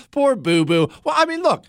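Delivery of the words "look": usual speaking voice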